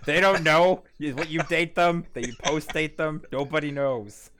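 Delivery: a hint of a Mexican-accented rock-and-roll singer; slightly Mexican crooner lilt; Mexican-accented rock-and-roll singer. Real, not acted. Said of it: "sound like a Mexican Elvis Presley".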